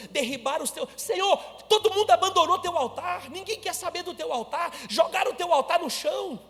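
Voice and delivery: high, loud, rising outcry of protest; preached lament building from pleading to outrage; indignant Elijah. Acted. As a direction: pour out the prophet's bitter complaint to God. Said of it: "Ele tá revoltado".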